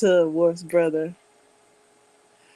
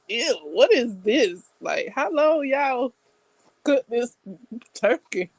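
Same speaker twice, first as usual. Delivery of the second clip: disgusted brother; 4 semitones higher than usual. Retold or imitated. Brother grimacing at the Thanksgiving turkey, disgusted. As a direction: sneer at the overcooked turkey. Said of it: "He was disgusted with that turkey".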